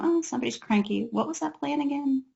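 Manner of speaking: starts mild, builds to a high, loud "Oh no"; escalating parental panic. Retold or imitated. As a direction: climb from mild annoyance into frantic panic. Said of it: "their feelings, as the crisis escalates, go from".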